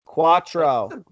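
slow dramatic Spanish countdown. Pretend. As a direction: count down slowly for suspense. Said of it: "Give me a countdown from five".

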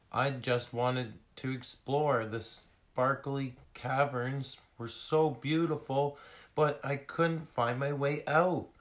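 high, loud small seal voice; little lost seal. Acted. Lost seal explaining how she got lost, high plaintive voice. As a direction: pour out the story as a small seal.

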